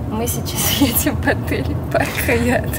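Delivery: slow, slurred, stumbling words; tongue tripping over itself, laughing; tongue-tied. Real, not acted. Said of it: "у меня язык заплетается". (заплетающимся языком)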